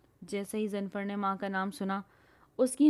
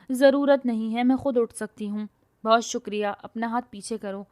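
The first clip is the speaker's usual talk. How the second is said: loud offended refusal; huffy, wounded pride; proud refusal; 6 dB louder than usual. Acted. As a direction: push his help away loudly. She refuses help angrily.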